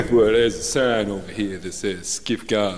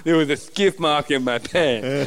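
laughing through a lisp; 3 semitones higher, slower than usual. Acted. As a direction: crack up mid-line. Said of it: "When you have a lisp".

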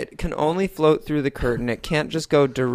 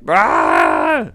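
mock scream; 8 dB louder than usual. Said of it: "he goes all out and he's like".

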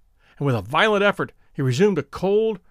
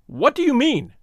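sudden high question; startled; 8 semitones higher than usual. A narrator's reading. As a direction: blurt it out in shock. First startled ask.

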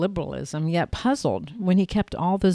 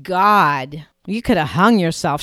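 alarmed scold; 6 dB louder than usual. Acted. Alarmed scolding after crash.

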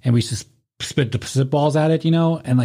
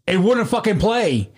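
slow then high dismay; 8 semitones higher, slower than usual. Retold or imitated. Finding the tape never recorded, rising dismay. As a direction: let it climb in disbelief.

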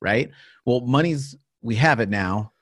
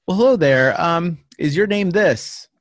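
stiff phone voice; 7 semitones higher, 5 dB louder than usual. Retold or imitated. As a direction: put on a stilted sales-call politeness. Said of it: "Wow, you sound horrible".

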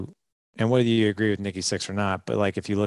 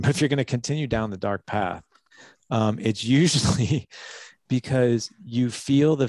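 laughing at himself; 3 semitones higher, 3 dB louder than usual. Real, not acted. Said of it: "why do I feel like Star Wars".

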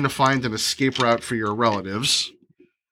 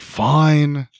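nonchalant; 3 semitones higher than usual. Retold or imitated. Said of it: "I like how nonchalant Rin is".

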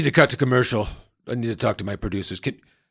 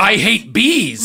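panicked wail; 8 semitones higher, 6 dB louder, slower than usual. Acted. Panicked retort.

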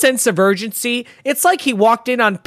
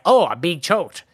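mildly mocking, deadpan retelling; no panic; 3 semitones lower than usual. Imitating the cop being choked, unbothered. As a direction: say it with zero alarm. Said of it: "no panic".

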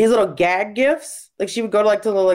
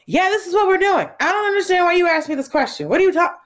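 mother voice; 9 semitones higher than usual. Retold or imitated. Imitating matter-of-fact mother.

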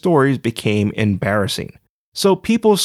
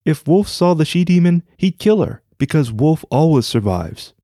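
high, jittery nervous voice; 4 semitones higher than usual. Acted. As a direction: say it with shaky bravado. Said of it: "A nervous laugh bellowed from Tanaka".

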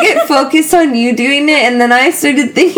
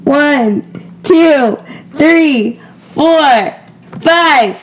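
brisk called-out count; chanted party count; drinking countdown; 3 semitones higher, much slower than usual. Real, not acted. Counts down on request.

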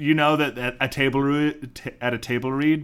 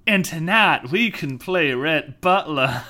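acted come-on; 4 semitones higher, 4 dB louder than usual. Quotes Shuggy's suggestive reply.

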